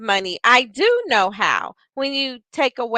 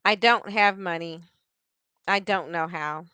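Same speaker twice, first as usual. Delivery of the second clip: softer and lower, sinking away; energy drops; 5 semitones lower, 6 dB quieter than usual. Shown as a demonstration. The speaker shows the death phrase to the listeners, deflated. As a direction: let the energy drain out of it. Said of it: "Do you hear how her energy went down".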